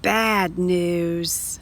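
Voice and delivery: low glum bad news; sad. Shown as a demonstration. Teacher reading to children, gloomy. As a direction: let it sink, disappointed.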